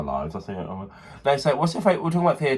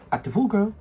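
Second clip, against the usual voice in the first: high sassy drag catchphrase; 10 semitones higher than usual. Pretend. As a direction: throw it out with sass.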